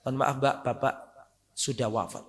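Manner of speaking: soft, low apology; retold death notice, voice dropping away; gently breaking bad news. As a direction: tell the bereaved daughter softly.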